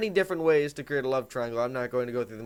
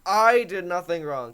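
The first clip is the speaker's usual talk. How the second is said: pompous; 3 semitones higher, 4 dB louder, slower than usual. Retold or imitated. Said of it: "that pompous prick that's like".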